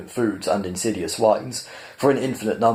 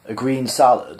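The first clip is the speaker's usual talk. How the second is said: disapproving; 3 semitones higher than usual. Acted. The animal mocking Arthur's order, disapproving echo. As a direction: repeat it back with rolled-eye disdain. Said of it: "rolling his eyes disapprovingly at Arthur".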